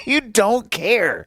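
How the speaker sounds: high laughing repeat. Real, not acted. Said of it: "you're evangelizing".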